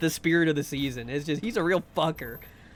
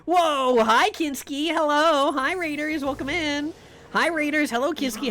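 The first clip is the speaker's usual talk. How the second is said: squeaky greeting; 8 semitones higher, 3 dB louder than usual. Real, not acted. Cheery stream greetings.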